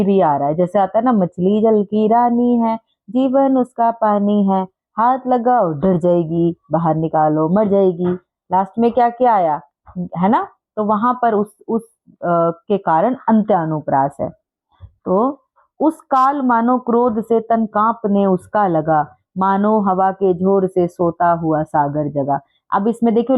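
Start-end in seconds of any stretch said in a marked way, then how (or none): 1.1-8.1 slow, sing-song rhyme recital; slow poem recitation. Shown as a demonstration. 15.8-22.4 slow, sing-song rhyme recital; slow poem recitation. Shown as a demonstration. Teacher recites verse line.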